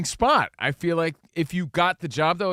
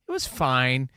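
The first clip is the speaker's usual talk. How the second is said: unenthusiastic; 4 semitones lower, slower than usual. Retold or imitated. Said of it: "that's a weak-ass response".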